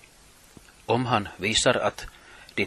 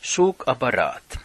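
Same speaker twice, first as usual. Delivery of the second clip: slightly raised terrace call; a mild shout at the goalkeeper; fan taunt call; 4 semitones higher, 4 dB louder than usual. Shown as a demonstration. Group behind the opponents' goalkeeper, lightly shouted taunt. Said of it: "och ropa".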